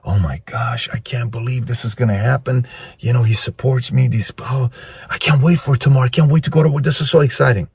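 softly giddy, building in pitch; excited bedtime murmur. Acted. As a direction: murmur happily to yourself before sleep. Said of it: "she goes to sleep saying".

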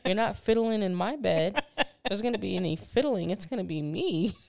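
loud laughing mock-outraged no; mock outrage. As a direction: scold him loudly, half laughing. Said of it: "I was like".

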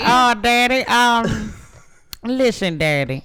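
high, loud, angelic voice from above; heavenly voice. Acted. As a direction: speak down like a heavenly ghost. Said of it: "heavenly voice".

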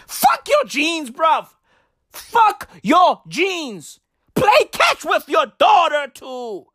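fired-up shout at fathers; shouting rant. Real, not acted. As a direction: hammer the point home. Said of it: "ranting at fathers".

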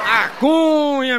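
long stretched high call of the name; drawn-out call. Acted. Comedian opening another joke, stretched and high.

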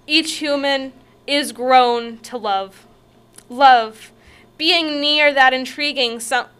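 earnest poem recital; dramatic poem read. Acted. Reads poem aloud.

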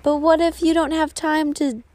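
a hint of a small, doubting voice; little tiny voice. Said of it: "the little tiny voice saying".

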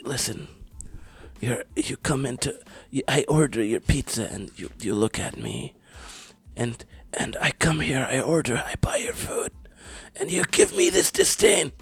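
raspy whispered mob boss voice; Godfather impression. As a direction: wheeze it like a dying don. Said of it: "I was trying to do The Godfather".

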